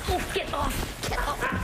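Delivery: laughing protest. Real, not acted. Being hugged, laughing.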